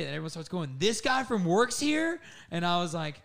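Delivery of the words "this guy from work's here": high, drawn-out disbelieving question; mock shocked. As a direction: squeal it out like you can't believe he came. Coworkers shocked at his arrival.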